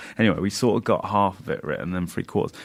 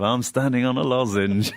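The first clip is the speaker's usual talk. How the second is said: bad impression of a singer's voice; 4 semitones higher than usual. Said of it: "I just think of".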